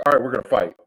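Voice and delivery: pumped, rising to a loud finish; psyching himself up for a brawl; ready-to-rumble hype; eager for a fight. Acted. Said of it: "but he's like".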